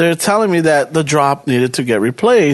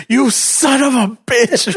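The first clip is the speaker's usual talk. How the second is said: drawn-out teasing curse, a touch higher; mock slow insult; 5 semitones higher, slower than usual. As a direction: stretch each word like a playful jab. Retelling coworker's slow insult.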